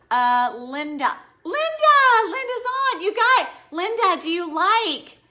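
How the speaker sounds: high, loud thrilled calls of a name; excited calling out. Real, not acted. Streamer spots her client Linda in the chat, excited high loud calling out. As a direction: call out her name, thrilled she's here.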